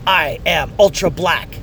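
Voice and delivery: put-on slow, deadpan kid voice; kid's proud line. Son announces it during the movie, slow and proud. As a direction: say it like a proud eight-year-old. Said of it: "he goes".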